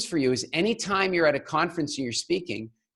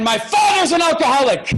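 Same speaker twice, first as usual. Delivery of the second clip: laughing; 11 semitones higher than usual. Retold or imitated. Accusation at AA podium.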